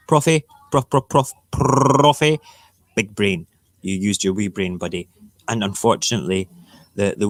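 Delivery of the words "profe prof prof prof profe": calling out. Real, not acted. Calling out to professor.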